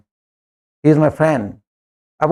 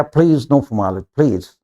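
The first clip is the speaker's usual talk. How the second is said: polite refusal; 7 semitones lower, slower than usual. Retold or imitated. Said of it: "या".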